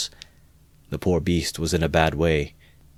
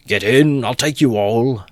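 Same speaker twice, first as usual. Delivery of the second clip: loud, high insistent shout; shouted again; 6 semitones higher, 6 dB louder than usual. Acted. Mikulka insisting to the crowd, loud shout. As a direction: bellow the offer once more. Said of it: "Mikulka shouted again".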